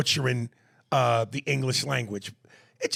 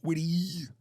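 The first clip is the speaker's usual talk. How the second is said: breathy half-whisper of the phrase; 3 semitones higher than usual. Pretend. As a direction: whisper it to yourself. Mimicking sounds.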